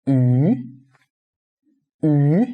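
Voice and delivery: "Yu" with a rising second tone; teacher modelling "Yu" as a rising syllable. Shown as a demonstration. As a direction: draw out "Yu", sliding upward. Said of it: "we read it as second tone".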